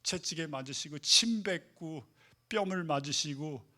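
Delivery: usual speaking voice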